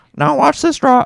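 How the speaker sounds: bad, very high, loud frog puppet voice. Speaker repeats a quoted line, in a bad Kermit the Frog voice. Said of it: "I'm bad at Kermit the Frog".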